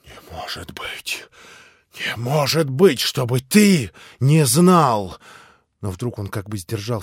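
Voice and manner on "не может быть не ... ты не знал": frantic accusation. A narrator's reading.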